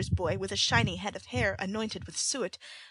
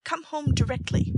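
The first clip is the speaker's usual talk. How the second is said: harsh order; 7 semitones higher, 6 dB louder than usual. A narrator's reading. Sikes bullies Oliver.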